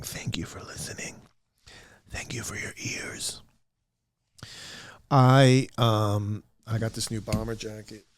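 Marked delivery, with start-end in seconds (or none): 0.0-3.4 whisper. Real, not acted. Thanking audio-only listeners.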